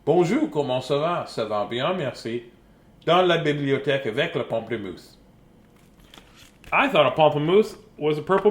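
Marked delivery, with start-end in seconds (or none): 0.0-5.2 French phrases. Pretend. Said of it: "look how French he looks".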